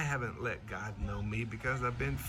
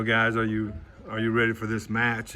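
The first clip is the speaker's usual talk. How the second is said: coach asking; 7 dB louder than usual. Retold or imitated. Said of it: "as a coach, I'll ask".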